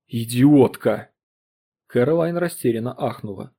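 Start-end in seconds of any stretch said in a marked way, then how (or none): 0.1-1.1 slow, louder contemptuous insult; lost composure. Acted. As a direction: spit the word at his wife. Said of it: "утратил обычную невозмутимость". (медленно, громко, с презрением)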